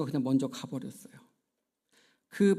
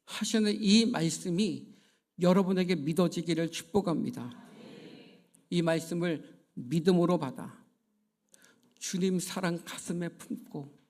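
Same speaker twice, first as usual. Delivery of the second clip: fervent sermon blessing, building louder; preaching; 3 dB louder than usual. Acted. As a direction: preach it to the congregation.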